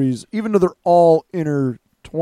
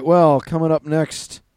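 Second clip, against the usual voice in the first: slow, drawn-out announcer read; sports commentator voice; slower than usual. Real, not acted. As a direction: lean into it like a game announcer. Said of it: "I started sounding like a sports commentator".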